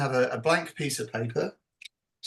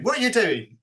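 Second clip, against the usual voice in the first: put-on a touch of curious child, higher; children asking; 10 semitones higher, 4 dB louder than usual. Kids crowding round the drawing, lightly mimicked, higher. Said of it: "they're going".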